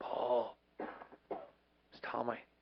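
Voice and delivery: weak, croaky, breathy half whisper. Speaker retells a phone call from a friend, imitating Tommy's croaky voice. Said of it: "And I hear this croaky voice".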